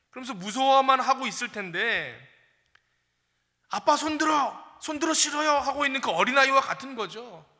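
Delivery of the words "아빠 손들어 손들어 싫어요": lightly voiced stubborn little kid saying no; whiny child. Stubborn child refusing father.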